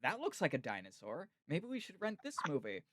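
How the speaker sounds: lightly voiced intrigued parents; lilting "ooh", lightly acted parent; parents' voices. Parents spotting a dinosaur movie for their kid, lightly imitated. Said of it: "my parents were like".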